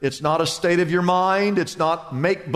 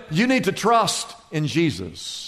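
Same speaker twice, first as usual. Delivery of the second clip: gentle answer; 3 semitones lower than usual. Acted. Pastor answers softly.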